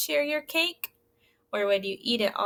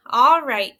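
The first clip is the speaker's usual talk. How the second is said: hen's resigned reply; 8 dB louder than usual. Acted. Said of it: "she said".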